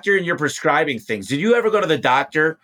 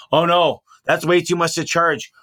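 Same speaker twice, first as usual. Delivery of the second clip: mocking whiny complaint; 5 semitones higher than usual. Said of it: "So, so sick of these people going".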